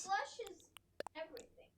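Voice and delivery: whispered, fading to nothing; whispering. Real, not acted. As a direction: breathe it out like a secret. Repeats in a whisper.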